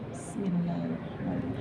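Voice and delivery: murmured basmalah, very soft; soft recitation. Shown as a demonstration. Teacher shows women how softly to recite. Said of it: "Al-Fatihahnya gini".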